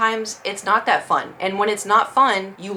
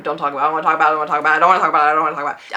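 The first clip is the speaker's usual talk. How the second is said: lower, louder mock refusal; a lower, louder, hammed-up I don't wanna talk about it; 5 semitones lower, 4 dB louder, much faster than usual. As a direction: refuse it over and over in jest. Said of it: "jokingly refusing to discuss her age".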